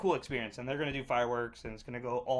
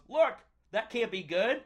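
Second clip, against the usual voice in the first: quoting a friend, pitched up; retold friend's warning; 7 semitones higher, 4 dB louder than usual. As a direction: voice a buddy pointing out trouble. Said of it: "Jimmy goes".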